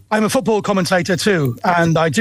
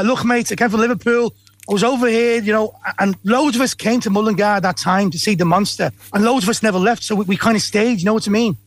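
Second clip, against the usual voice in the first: lightly done Yorkshire voice of a football manager; a hint of Mick McCarthy's Yorkshire; Yorkshire accent. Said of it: "That sounds like Mick McCarthy".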